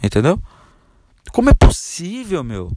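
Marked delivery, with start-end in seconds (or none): 1.3-2.7 high, slow, indignant; how is that possible, incredulous; exasperated disbelief. Real, not acted. Coach scolding lazy salesmen, exasperated.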